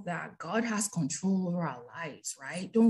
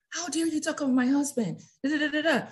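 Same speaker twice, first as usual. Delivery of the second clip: higher, mock-outraged retort; mock indignant; 8 semitones higher than usual. Wife hitting back at a critic, mock outrage pitched high. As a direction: play the offended wife firing back. Imagined angry retort to Wendy.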